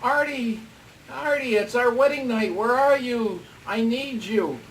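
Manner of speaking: hammed-up come-hither wheedling; mock sexy voice. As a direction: imitate a sultry bride calling her husband. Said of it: "It was a really sexy voice".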